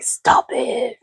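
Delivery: high, soft mock "stop it"; retold protest, pitched well up; playful protest. Man protesting being compared to Copilot, high playful imitation.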